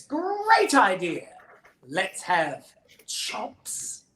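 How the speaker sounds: high, drawn-out delight, slowing right down; hammed-up eager child bunny; sudden bright idea. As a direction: seize on the idea with slow relish.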